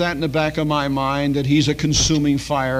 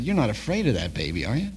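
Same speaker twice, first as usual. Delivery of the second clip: softer, lower sly question; gentle tease; 3 semitones lower, 5 dB quieter, faster than usual. Retold or imitated. Pastor teasing the father about tiptoeing, softly. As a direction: ask it quietly, half teasing.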